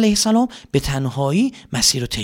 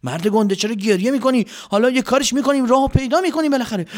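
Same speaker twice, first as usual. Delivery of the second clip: comforting soldier; 10 semitones higher than usual. Acted. Soldier comforting crying comrade.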